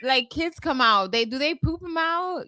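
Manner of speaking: put-on high, naive little kid asking; "how do kids come out", as a curious child; childlike voice. Teasing her cohost by imitating a kid, high and naive. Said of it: "That's what kids be saying".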